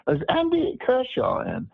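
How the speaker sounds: a light caricature of the sister picking up; high mock phone voice. Sister answering the phone, in a high mock voice. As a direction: pitch it way up like a woman answering the phone.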